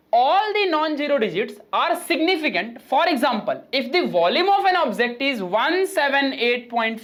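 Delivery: slow, deliberate classroom read-out; reading out a rule. Acted. Teacher reading the first rule to the class, slow read-out. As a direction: read it out slowly for note-taking.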